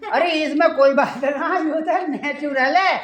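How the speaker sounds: chuckling through the words; laughing old man. Acted. Father-in-law laughing it off as natural. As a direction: laugh it off kindly.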